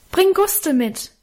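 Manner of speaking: high, drawn-out call; calling after someone. A narrator's reading. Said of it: "rief ich ihm in die Dunkelheit nach". (langgezogen und hoch nachrufen)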